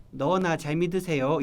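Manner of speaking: slow, drawn-out sarcastic retort; mocking brush-off. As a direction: stretch it out like a sceptical friend. 비꼬는 친구의 반응 연기. (길게 늘여 비꼬는 말투)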